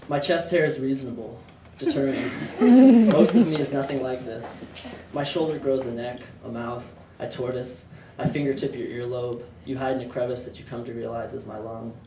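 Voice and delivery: measured, even poem recitation; poetry reading. Acted. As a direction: read it as verse, pausing between phrases. Reads own poem aloud.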